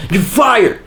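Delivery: high, loud mock boss yell; mock shout. Youtuber opening with a mock firing shout. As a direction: bark it like a boss firing someone.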